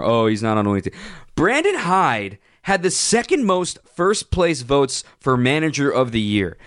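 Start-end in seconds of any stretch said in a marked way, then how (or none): 0.0-1.0 mocking quote. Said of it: "I don't ever wanna hear about".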